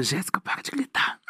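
urgent hushed whisper. Retold or imitated. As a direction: hiss it so nobody in the museum hears. Hushing friend in a museum.

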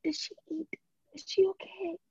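high, fussing mother voice; caring mom. Retold or imitated. Imitating a doting mom checking on her friend, high and fussy.

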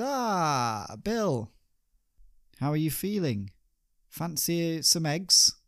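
high, bright breezy greeting; cheery host. Acted. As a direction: sing out the morning welcome, pitched high. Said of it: "And he says".

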